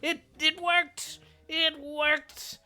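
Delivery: high, loud triumphant yell; excited shout. Real, not acted. Boss dies, gamer erupts.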